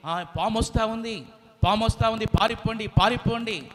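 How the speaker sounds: high urgent monkey cry; monkey shouting warning. Acted. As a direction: shout the alarm to the forest. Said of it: "గట్టి గట్టిగా కోతి అరుస్తా ఉందన్నమాట".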